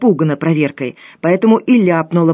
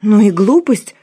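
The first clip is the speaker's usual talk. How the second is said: louder, higher scoffing exclamation; snorting dismissal; 4 semitones higher, 5 dB louder than usual. A narrator's reading. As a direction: scoff at the silly idea. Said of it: "фыркнула Лена". (пренебрежительно фыркая)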